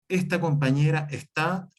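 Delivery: "está" stressed on its last syllable, unlike "esta"; stress on final A. Shown as a demonstration. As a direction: end on es-TÁ after "esta compañera". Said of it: "la otra va con acento en la A". ("está" con acento en la A final)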